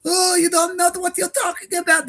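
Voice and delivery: put-on high-pitched caricature of a heavy Israeli Jewish accent; triggered heavy-accent impression in a high mocking voice. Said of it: "Their accent gets real heavy when they get triggered".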